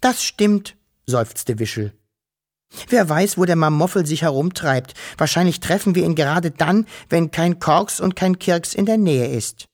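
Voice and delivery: a small worried creature, voice up high. Acted. Wischel character voice.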